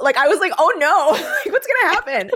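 high, giggling through the words; real laughing. Real, not acted. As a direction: crack up while getting it out. Cracking up at her own suggestion.

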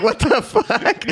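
high, slow, stunned what the fuck; shocked disbelief. Retold or imitated. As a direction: draw it out in disbelief. Shocked reaction to gang of rappers.

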